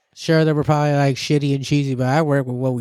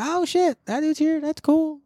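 excited; 11 semitones higher than usual. Retold or imitated. Excited reaction to seeing DJ.

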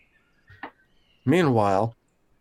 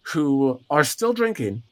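game master narration. Acted. Game master sets the scene.

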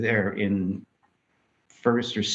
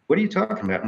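mock incredulous New Yorker; 10 semitones higher, much faster than usual.

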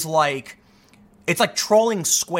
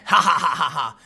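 a mock taunting ha ha ha; imitated mocking laugh; 2 semitones lower than usual. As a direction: imitate a teen cackling at his own prank. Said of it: "fan it at you laughing".

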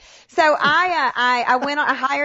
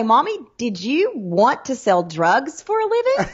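lightly voiced little girl asking mommy; a hint of a child's innocent question; a child's voice, barely put on; imagined daughter; 2 semitones higher than usual.

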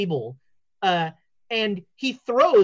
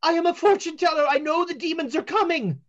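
ominous seer; 6 semitones higher, 4 dB louder than usual. Acted. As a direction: deliver the prophecy. Fortune teller prophesies.

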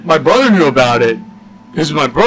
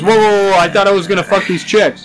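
alarmed; 6 semitones higher, faster than usual. Retold or imitated. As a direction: back off in alarm. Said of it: "He goes".

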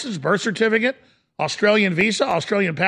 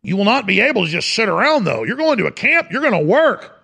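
Australian accent attempt with a British lean; badly faked Australian accent, pitch swinging up at the end; 3 semitones higher than usual. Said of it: "that's more of a British accent".

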